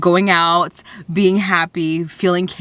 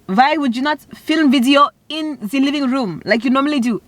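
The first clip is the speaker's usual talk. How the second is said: family voice questioning; 6 semitones higher than usual. Retold or imitated. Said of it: "they're going to be like".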